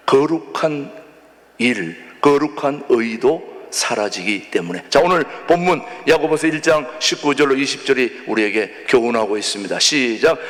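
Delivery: ordinary talk, nothing marked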